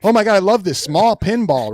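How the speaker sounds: high, loud mock gushing; gushing fanboy. Mocking fans loving small pinballs, high and loud. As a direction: gush like a fan over a toy. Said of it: "fans mocked".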